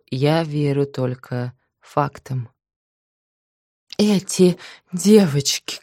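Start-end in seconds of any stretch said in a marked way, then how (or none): 4.0-5.8 loud, anxious appeal; nervous pleading. Acted. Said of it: "Карл Палыч нервно кивнул".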